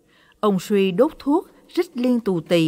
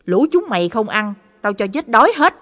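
put-on gruff old man snapping at the dogs, louder at the end; angry cursing; 2 semitones higher, 5 dB louder than usual. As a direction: curse the dogs in a temper. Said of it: "điên tiết, chửi đổng lên". (chửi đổng giận dữ)

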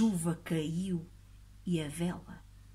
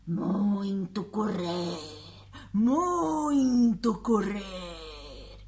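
very slow monster voice; friendly monster; much slower than usual. Acted. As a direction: drawl it like a tired giant. Monster answers.

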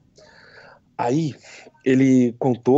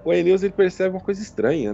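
ordinary talk

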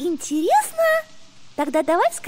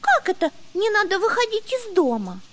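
puzzled. Acted. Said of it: "Растерялась Бунька".

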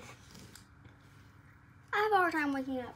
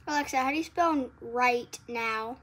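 slow loud command; 6 dB louder than usual. Real, not acted. Asking the smart speaker a question.

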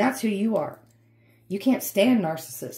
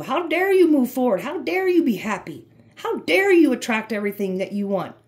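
louder, mock-indignant narcissist; building mock outrage; a hint of a jealous narcissist; 3 semitones higher, 4 dB louder than usual. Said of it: "That's how narcissists think".

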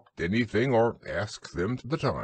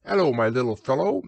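kindly; 4 semitones higher, 4 dB louder, faster than usual. Acted. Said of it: "in a kindly way".

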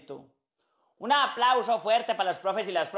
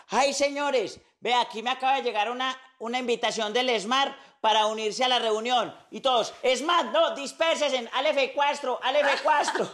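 high, excited warning; alarmed teacher; 4 semitones higher than usual. Acted. Teacher warning colleagues at an online meeting, comic alarm. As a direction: raise the pitch and urge everyone to scatter. Teacher warns the others to disperse.

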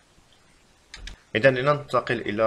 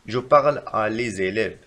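slow, careful wrong example; slow dictation; 3 dB louder, much slower than usual. Shown as a demonstration. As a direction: dictate it slowly. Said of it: "فالخطأ في هذه الجملة".

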